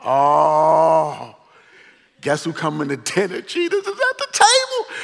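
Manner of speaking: woman thrilled Jesus is at dinner, squeals; excited woman. Retold or imitated. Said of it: "the woman finds out".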